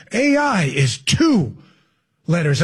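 drawn out very slowly, word by word; slow mock repeat. Shown as a demonstration. Mocking her slow repeat to the listeners, very slow. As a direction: say it slow to sound deep. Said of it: "Let me say it twice".

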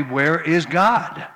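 rather loudly. Retold or imitated. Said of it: "he said rather loudly".

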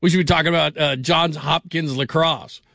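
slow down on "Johns Hopkins lacrosse"; drawn-out show tagline. Shown as a demonstration. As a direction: stretch the ending like a host's setup. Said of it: "see, this is how it's done".

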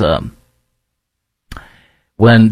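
ordinary delivery

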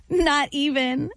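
put-on slow Valley Girl punchline. Host landing a joke's punchline, slow mock Valley Girl. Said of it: "Valley Girl joke".

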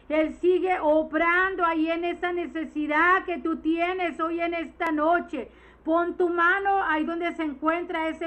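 rising, insistent pulpit proclamation; fervent preaching. Acted. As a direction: preach it to the congregation with fire. Preaching at full force. (predicación fervorosa e insistente)

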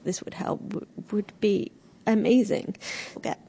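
choked up, halting through tears; overcome, words breaking off; real tearful voice. Real, not acted. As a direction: stop and apologise as tears come. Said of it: "I know I'm crying now".

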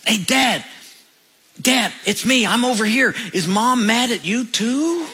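a hint of a cheerful little boy calling from hiding; little boy's voice. Boy calling to his dad from under the house, lightly voiced child. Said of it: "he hears this voice".

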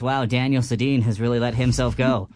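squeaky helium-balloon voice. Real, not acted. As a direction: talk after inhaling helium. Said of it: "helium balloon break".

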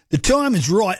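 mock Australian accent, lightly put on; a quick, deliberately bad Aussie impression; hammed-up Australian twang on a quote; horrible Australian accent. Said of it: "a horrible Australian accent".

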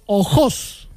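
"Ojos" con el golpe en la última sílaba, o-JÓS; acento agudo. Shown as a demonstration. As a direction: di "Ojos" como palabra aguda, marcando JOS. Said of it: "lo voy a pronunciar como se debe pronunciar". ("Ojos" pronunciado o-JÓS, acento al final)

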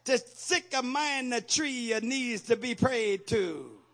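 lightly hammed-up Italian accent, slow; a hint of an Italian accent, drawn out; mock Italian accent. Preacher jokes to the congregation in a mock Italian accent. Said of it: "shifted over to an Italian accent".

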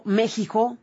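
"México" altered to "Méjijo"; lightly imitated "Méjijo" for México; mimicked "Méjijo". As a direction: quote México as a mocking "Méjijo". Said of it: "en tono de burla".

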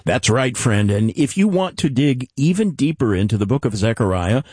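polished, evenly paced promo delivery; radio announcer read. Acted. Host offering listeners the Zechariah commentary, announcer read. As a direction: present it like a scripted broadcast sign-off.

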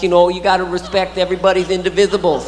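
lightly voiced lisping boxer; rambling lisped impression, reaching for fancy words; Mike Tyson. Boxer showing off his prison schooling, lightly lisped impression. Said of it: "I love Mike Tyson".

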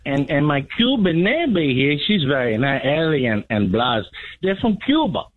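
a hint of a Spanish-speaking neighbor; mild Latino accent, unhurried; Hispanic impression. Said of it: "do you not have a Mexican?".

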